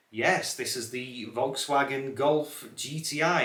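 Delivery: slow, polished presenter read; a light touch of car-review announcer, unhurried; broadcasting voice. Shown as a demonstration. Vlogger showing his camera voice, a slow broadcasting read. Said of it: "slipping into the".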